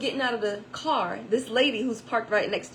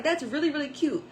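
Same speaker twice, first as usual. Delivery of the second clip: admiring stranger; 3 semitones higher, 3 dB louder than usual. Retold or imitated. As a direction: rave a little more. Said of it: "she was like".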